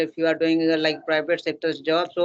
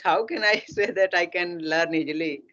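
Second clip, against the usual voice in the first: chuckling through the question; half-laughing at the idea of learning easily. Real, not acted. Speaker laughing while telling his friend he can't easily learn an accent.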